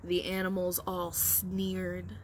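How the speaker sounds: put-on expressive read-aloud for young children; storybook reading. A narrator's reading. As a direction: read it like a picture book at story time. Teacher reads picture book aloud.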